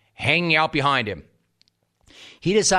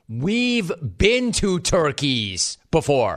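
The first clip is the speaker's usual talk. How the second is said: mock quote; 3 semitones higher, slower than usual.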